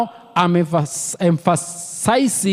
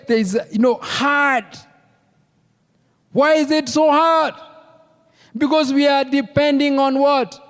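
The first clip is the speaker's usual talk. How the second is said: raised pitch, pressing each point home; emphatic preaching; 5 semitones higher than usual. Real, not acted. Preacher asking the church why it is so hard, emphatic preaching. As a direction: preach it high and insistent, in short separated phrases.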